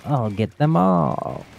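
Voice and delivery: slow mwahaha then a sly threat; evil villain laugh. Shown as a demonstration. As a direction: cackle and gloat like a villain. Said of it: "Evil Happy".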